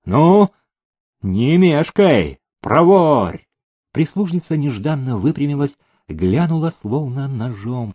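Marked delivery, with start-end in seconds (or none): 0.0-3.5 loud, higher, emphatic urging; impatient command. A narrator's reading. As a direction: hurry the servant along forcefully. Master hurries his servant. (громко, нетерпеливо понукая)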